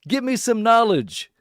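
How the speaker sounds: lightly voiced crank begging a squid; mock pleading to a squid. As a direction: beg the squid for wisdom, hamming it up. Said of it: "now it's gonna be like".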